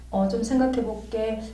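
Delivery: mild and hesitant, softly spoken; soft, gentle refusal. Retold or imitated. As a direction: let them down gently, quietly. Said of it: "이렇게 부드럽게 얘기를 했으면".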